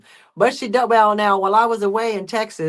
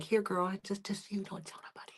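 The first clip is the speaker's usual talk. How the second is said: hushed conspiratorial whisper; secretive whisper; 18 dB quieter than usual. Acted. Owner sneaks one cat a snack, whispering. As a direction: slip a secret under your breath.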